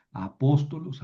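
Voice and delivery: a-POS-to-los; "apóstolos" stressed third syllable from the end; antepenultimate stress. Shown as a demonstration. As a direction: put the accent on the "pós" of "apóstolos". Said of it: "el acento lo tengo que mover".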